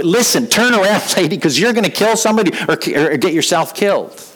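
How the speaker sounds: loving warning. Retold or imitated. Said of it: "in a loving way".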